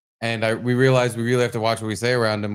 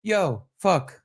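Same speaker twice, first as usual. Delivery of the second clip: put-on calm little-kid deadpan, slightly higher; 4 semitones higher than usual. Dad imitating his son with a toy, very calm. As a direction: imitate a toddler saying it very calmly. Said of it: "very calmly just goes".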